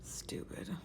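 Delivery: an unvoiced, deadpan whisper of "Stupid.". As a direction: breathe "Stupid." under your breath. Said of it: "I'm like".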